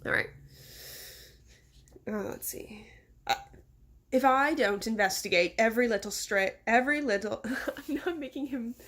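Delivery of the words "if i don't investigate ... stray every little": put-on British accent drifting Irish or Scottish; unintended Irish or Scottish. Narrator redoing the mayor, accent sliding Irish or Scottish. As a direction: attempt British, slipping toward Scottish or Irish. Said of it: "either Irish or Scottish".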